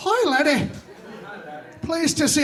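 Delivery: bad, fake, terrible put-on Irish accent. Irish ancestors greeting the speaker in the afterlife, terrible put-on irish accent. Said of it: "I know that's a terrible Irish accent".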